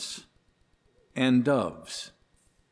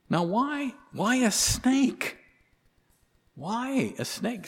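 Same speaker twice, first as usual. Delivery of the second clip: rhetorical question; 10 semitones higher, slower than usual. Acted.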